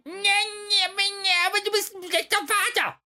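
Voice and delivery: very high squeaky Kermit imitation with sobbing; mock him in a whiny frog puppet voice; mocking Finn Balor as Kermit. Podcast host mocking how Finn Balor sounds, high Kermit whine. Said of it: "der klingt halt wie, äh, Kermit".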